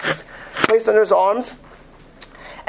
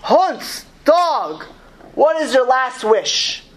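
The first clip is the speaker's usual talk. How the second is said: raised, drawn-out mock question; mocking officer's taunt; 5 semitones higher, much slower than usual. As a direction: taunt a condemned man, slowly and higher. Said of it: "said in a mocking tone".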